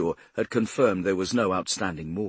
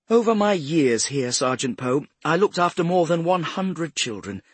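high, emphatic self-important lady; cultured older woman, proud; 7 semitones higher, 5 dB louder than usual. A narrator's reading. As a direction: defend your record with dignity. Voices Mrs Swift defending her record.

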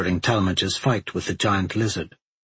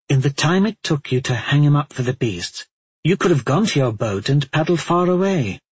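lightly voiced shrewd woman; calm, probing logic; reasoning Cote; 5 semitones higher than usual.

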